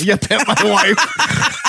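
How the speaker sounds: laughing. Pretend. Echoing the joke laughing.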